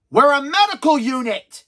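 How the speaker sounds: indignant retort. Acted. Acted indignant retort in scene.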